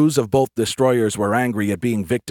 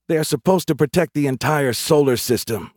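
higher-pitched protest; objecting; 6 semitones higher, 3 dB louder than usual. A narrator's reading. Private objecting to squadmate about the Sentinels, protesting. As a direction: argue back, pitch lifted. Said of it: "Larry objected".

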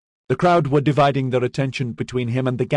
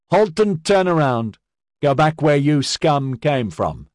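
loud, higher contemptuous command; angry order; 7 semitones higher, 4 dB louder than usual. A narrator's reading. Sergeant ordering the gang away, angry and loud. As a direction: drive them off with scorn.

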